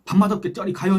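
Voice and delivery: loud, high Jeolla-dialect shout. Retold or imitated. Customer telling the minister to go away, loud Jeolla-dialect shout. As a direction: bark it in Jeolla dialect like an annoyed diner. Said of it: "전라도 사투리입니다".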